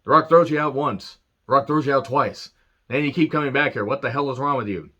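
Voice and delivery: hammed-up Rock rant at Stasiak; a hint of The Rock's mic cadence. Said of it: "He's like".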